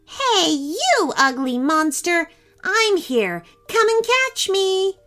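high-pitched taunting call. A narrator's reading. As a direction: call out to provoke the guard, pitched well up. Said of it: "and called out to the guard".

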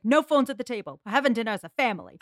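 lightly voiced stern dad; scolding dad.

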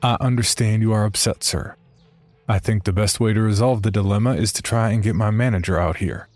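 polite, even service-desk voice; customer service voice. Retold or imitated. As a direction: soothe an angry customer politely. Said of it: "in my best customer service voice".

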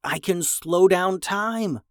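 proud, drawn-out announcement with a smile; smiling. Acted. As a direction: reveal your new power with a smile. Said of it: "Jackson said with a smile".

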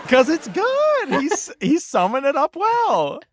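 giggling while answering; bubbling with laughter; laughing. Real, not acted. Delighted giggling approval.

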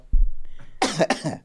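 a feeble fake cough; half-hearted staged cough; weak demo cough. Shown as a demonstration. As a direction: cough lightly for show. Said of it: "let me do my cough again".

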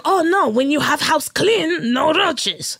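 slow, mildly put-on landlord accent in broken English; landlord's accent. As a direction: lecture about crumbs in the landlord's accent, slowly. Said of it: "the landlord with the accent that I won't do".

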